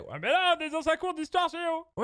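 prof sceptique, voix haute; voix de prof aiguë. Pretend. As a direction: joue la prof qui recadre. Prof qui répond à l'élève. (prof moqueuse d'une voix aiguë)

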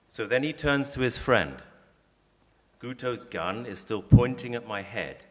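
calm literary reading voice; story reading. Acted. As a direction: read the extract to draw listeners in. Reads an extract from his book.

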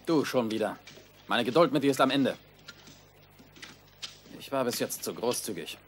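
cold menace rising to a loud order; a thwarted tyrant losing his temper; foiled villain. Acted. Lord loses patience with prisoner.

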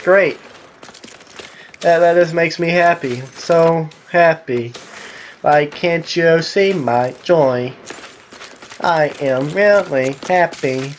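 slow, deadpan sarcastic joy; mock happiness. Real, not acted. Gamer sulking about being killed, sarcastically happy. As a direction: drag out the fake happiness.

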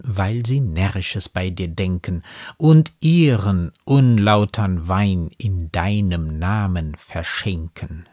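slow, measured poem recitation; Gedichtvortrag. A narrator's reading. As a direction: recite the verse slowly, letting each line settle. Recites the poem before explaining it. (getragen vorgetragenes Gedicht)

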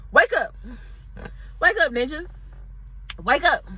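a mild mock yell while knocking him. Hitting him to wake him.

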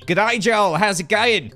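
mock Australian accent, loud and high; Pearl. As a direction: greet in a put-on Aussie accent. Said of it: "what a great Australian accent you have".

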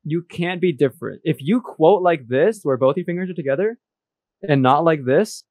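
deadpan fake accusation; mock serious. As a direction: pretend to scold her, straight-faced. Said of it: "I'm kidding".

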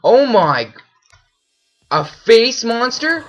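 real fright at a new monster; frightened cry. Real, not acted. Sees a face monster.

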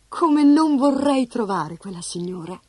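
"come non vorrei" with "non" pressed; stress on non. Acted. Francesca wishing to herself, "non" stressed.

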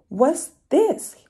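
a sly fox sniffing around; curious fox voice. Acted. Fox finds the mitten, asking high and loud.

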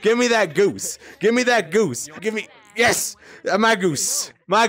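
high, greedy insistence; high-pitched possessive pestering; excited demanding. Real, not acted. Grabbing goose from friend.

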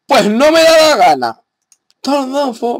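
loud and high, snapping back; defiant yell. Real, not acted. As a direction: shout it back at the critic. Defiant retort to commenter.

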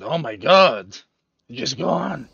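campy theatrical dame voice; shrill camp pantomime dame. Real, not acted. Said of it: "Why am I saying it like that?".

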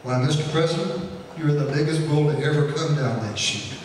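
lightly imitated Texas drawl of a rich oil man; a hint of a Texas accent, joking, breaking into a laugh. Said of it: "in his best Texas drawl".

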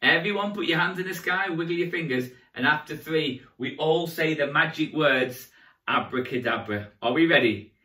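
magician leading a countdown; rally the kids into the spell; kids party magician. Acted.

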